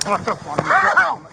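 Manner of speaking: real cry of pain; pained yelp. Real, not acted. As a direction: yelp out while being grabbed. Being detained by force.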